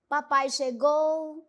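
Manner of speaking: "Papai chegou" drawn out, unfinished tune; trailing off. Shown as a demonstration. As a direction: leave "Papai chegou" hanging. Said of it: "como se fosse dizer outra coisa".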